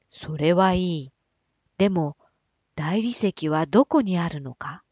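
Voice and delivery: king's voice. Acted. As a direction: speak down as the king.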